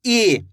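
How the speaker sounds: long drawn-out ई sound; stretched ई. Shown as a demonstration. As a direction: hold the ई long and steady. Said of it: "इसकी मात्रा को भी खींच के पढ़ेंगे". (ई को खींचकर लंबा बोलें)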